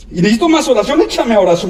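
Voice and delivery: creyente insistente, levemente imitado en tono agudo; creyente que pide oración. Retold or imitated. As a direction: pide con insistencia, parodia ligera. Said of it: "cuando la gente nomás dice". (imitación ligera de quien pide oración)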